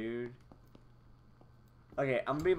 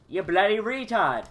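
angry shout; 6 semitones higher, 6 dB louder than usual. Acted. Soldier yells insult.

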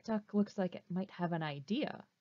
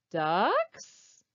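duck puppet voice; 8 dB louder than usual. Acted. Duck puppet calls again.

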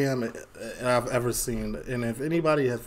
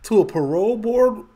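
surprised; 8 semitones higher, 3 dB louder than usual. Real, not acted. Reacting to a before and after.

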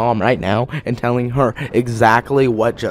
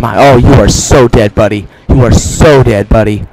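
gloating, louder threat; loud taunt; 6 dB louder than usual. Real, not acted. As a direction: taunt the enemy you're chasing. Taunting opponent in game.

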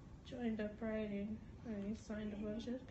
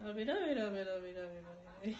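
made-up language; 2 semitones lower, 4 dB louder, much faster than usual. Shown as a demonstration. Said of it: "but it's like".

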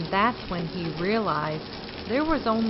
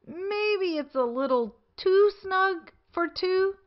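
Tortoise in a much higher voice; 9 semitones higher than usual. A narrator's reading. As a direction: pitch it up high for Tortoise.

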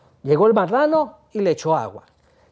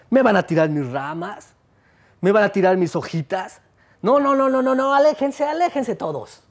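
indignant, rising to a high no no no; angry tree; 3 semitones higher than usual. Acted. Tree scolding the animals about the party, indignant and high. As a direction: scold the animals, then shoo them off. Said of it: "el árbol se enojó y les dijo".

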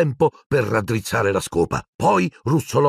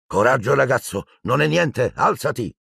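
higher, bracing teacher voice; brisk encouragement; 4 semitones higher than usual. Acted. Madame Hooch urges Neville to get up, brisk and higher. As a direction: buck the boy up quickly. Teacher urging injured boy.

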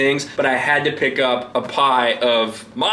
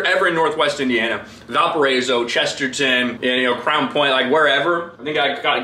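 normal talking voice

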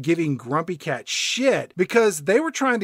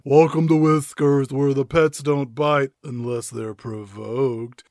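put-on shop clerk's welcome, trailing lower; store clerk; 3 semitones lower, 3 dB louder than usual. Clerk greets an old woman at the pet store, put-on welcome. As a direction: greet a customer as a clerk, starting loud. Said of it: "the pet store clerk tells this old woman".

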